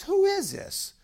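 very high-pitched, incredulous question; re-enacted baffled phone answer; acted bafflement. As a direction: demand to know who's calling, pitch way up. Baffled by hysterical caller.

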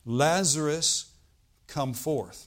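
a somewhat loud, slow call on the name; acted call, easing on the command; mild loud cry. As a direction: draw out "Lazarus" as a restrained summons. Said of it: "he cried with a loud voice".

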